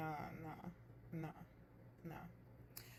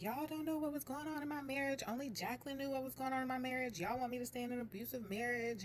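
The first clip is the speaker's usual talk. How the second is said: retold blowup; 6 semitones higher than usual. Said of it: "blew up".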